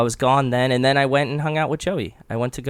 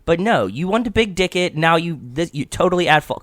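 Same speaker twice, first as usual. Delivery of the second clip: ranting; 6 semitones higher than usual. Real, not acted. Ranting at the driver.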